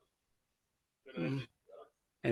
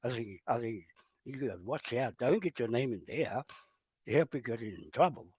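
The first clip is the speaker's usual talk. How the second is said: lower, much softer mock warning; hushed, lowered mimicry of gossiping neighbours; imitating wary locals; 5 semitones lower, 7 dB quieter than usual. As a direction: neighbours warning each other about his van, voice dropped low and soft.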